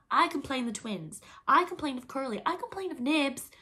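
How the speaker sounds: put-on high, loud childish tale-telling; tattling. A narrator's reading. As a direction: pile up complaints, climbing in pitch. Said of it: "The hateful telling broke out again".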